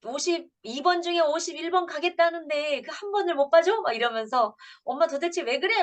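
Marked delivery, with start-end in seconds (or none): 0.0-3.8 put-on high-pitched, indignant child talking back. Daughter refusing her mother's church rule, high and indignant. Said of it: "이제 대드는 거예요". 4.8-5.8 put-on high-pitched, indignant child talking back. Daughter refusing her mother's church rule, high and indignant. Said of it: "이제 대드는 거예요".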